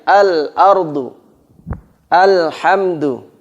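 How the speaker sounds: Al-ardu and Alhamdu slow, lam still; no bounce. Shown as a demonstration. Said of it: "nggak ada pantulannya".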